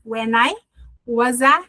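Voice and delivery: "When I" and "was a" as two joined chunks; showing the linking. Shown as a demonstration. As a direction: say "When I", pause, "was a", each pair run together. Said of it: "Viu as junções?".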